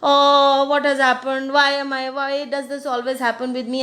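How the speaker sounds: hammed-up complaining kid; whining child. Children complaining about everything, mild mock whine. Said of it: "some children keep on going".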